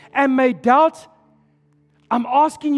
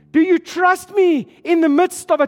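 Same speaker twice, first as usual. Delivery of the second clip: rising to a pleading preacher's shout; shouted plea to the congregation; impassioned shout; 3 semitones higher than usual. Acted. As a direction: plead with them at full voice as God. Preacher voicing God, pleading loudly.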